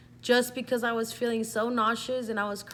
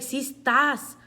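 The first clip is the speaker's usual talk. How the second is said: loud, higher-pitched retold exclamation; retold outburst; 6 semitones higher, 10 dB louder, slower than usual. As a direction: throw it out like a shocked dad. Dad throws test, exclaims result.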